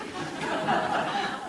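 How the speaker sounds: a soft breathy chuckle; breathy laugh. Real, not acted. Reader laughing at her Heston joke, breathy laugh. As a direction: let out a short airy laugh.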